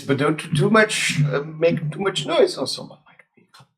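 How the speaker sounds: dragon voice. Acted. Dragon speaks to the party.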